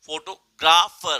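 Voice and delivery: "फोटोग्राफर" with GRA hit slow and loud; stress on GRA. Shown as a demonstration. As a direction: lean hard on the GRA in "फोटोग्राफर". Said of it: "ग्रा और फर पे आपने जरूरत से ज्यादा stress दिया". ("फोटोग्राफर" में ग्रा पर ज़ोर, धीमे और ज़ोर से)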